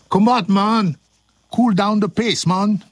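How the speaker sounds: put-on Jamaican lilt; mock Jamaican accent. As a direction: play at a Jamaican reggae man. Playing a laid-back reggae smoker.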